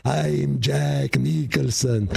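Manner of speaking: a slow, lightly voiced Jack Nicholson; hacky Jack Nicholson move, drawn out; Jack Nicholson impression. Dog puppet with a paw on its forehead, lightly voiced Jack Nicholson. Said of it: "put a little paw over his forehead".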